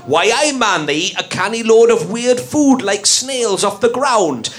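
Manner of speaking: slow Geordie accent, Newcastle vowels; broad North East English lilt, taken slowly; northeastern accent. Shown as a demonstration. Host showing the game with a Geordie accent. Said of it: "be using a northeastern accent".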